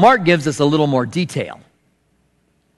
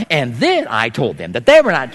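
imitating mom; 2 semitones lower than usual. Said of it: "this would be my mom normally".

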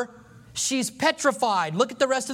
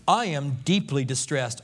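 mild distress; 7 semitones lower than usual. Acted. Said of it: "And Saul answered".

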